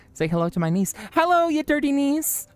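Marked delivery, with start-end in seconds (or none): 1.1-2.5 put-on teasing baby talk. Greeting niece in cute voice.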